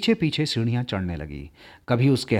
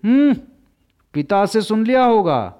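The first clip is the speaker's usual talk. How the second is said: laughing lightly; 7 semitones higher, 4 dB louder than usual. A narrator's reading. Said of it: "बालिका हंसकर बोली".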